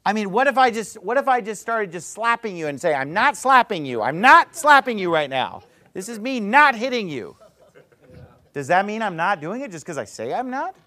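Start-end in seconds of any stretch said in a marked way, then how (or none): 2.9-7.4 mock innocent denial. Imitating a hypocritical slapper.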